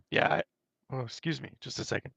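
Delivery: hoarse, voice giving out; rough throat, voice failing; losing voice. Real, not acted. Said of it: "I'm losing my voice".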